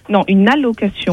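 "allocation" said in full with its first syllable clear; patient correction on "allocation"; correcting the word. Real, not acted. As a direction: insist on "allocation", not "location". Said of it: "on dit location".

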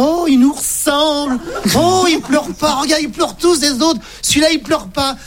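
delighted. Acted. Fathers marvel at their baby.

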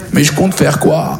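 deflated question. Acted. Own reply echoing friend's question.

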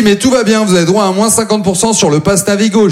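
imitating the lady. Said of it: "Elle me dit".

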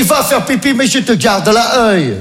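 mock American minder keeping watch; American accent. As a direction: grant the permission, then warn him slowly. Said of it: "Il m'a dit".

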